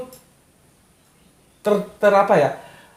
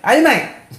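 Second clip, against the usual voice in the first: Betawi parent calling; 9 semitones higher than usual. Retold or imitated. Betawi parent calling up to the child in the tree, high mock dare. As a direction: sing out the dare like a Betawi mum daring her kid. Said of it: "Tapi nyuruhnya terbalik".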